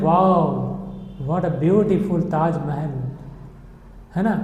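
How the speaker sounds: slow, understated demonstration of wonder; sudden admiration. Shown as a demonstration. Teacher imagining a first sight of the Taj Mahal, mild wonder. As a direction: draw out the wow, mildly awed. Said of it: "जैसे ही हमारी नज़र पड़ती है".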